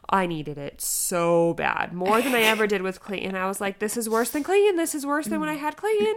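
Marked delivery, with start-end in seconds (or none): 3.8-6.2 retold distressed complaint. Retold complaint during labor.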